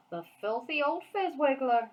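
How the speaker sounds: loud, high angry shout. A narrator's reading. The BFG shouting about the orphanage cellar, outraged. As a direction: bellow the insult in outrage. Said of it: "shouted the B F G".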